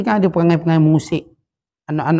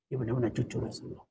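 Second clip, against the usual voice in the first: soft echo; 6 semitones lower, 18 dB quieter than usual. Acted. Preacher softly echoing the man's lifelong testimony, hushed. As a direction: drop to a near hush on "Dia benar-benar cucu Rasulullah". Echoes testimony much softer.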